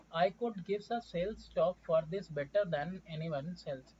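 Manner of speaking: each syllable drawn out slowly. Acted. Foreigner pitching his horse slowly to Muni, syllable by syllable. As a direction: sell it one syllable at a time. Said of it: "speaking slowly ... syllable by syllable".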